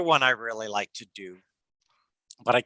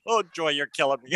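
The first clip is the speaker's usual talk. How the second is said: laughing at Joy; 3 semitones higher, faster than usual. Acted. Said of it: "the cell phone one".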